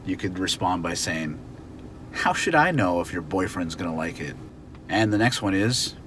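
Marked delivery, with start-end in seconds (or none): 2.1-4.4 annoyed. Shown as a demonstration. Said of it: "you're a little bit annoyed".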